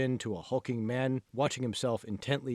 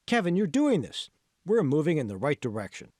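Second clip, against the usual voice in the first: lightly voiced encouraging coach; 3 semitones higher, 4 dB louder than usual. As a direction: pump him up like a trainer, lightly acted. The speaker cheering Kevin on.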